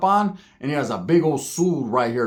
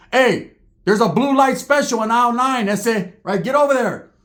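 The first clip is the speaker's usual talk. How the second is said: mock store announcer; 5 semitones higher than usual. Summoning the homeboys to the fight like a store PA, a light mock announcer call. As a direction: call them over like a blue light special.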